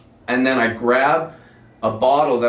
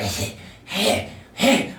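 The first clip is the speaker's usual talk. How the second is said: hissing retch; 5 semitones higher, much slower than usual. Retold or imitated. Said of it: "cobra fucking hissing".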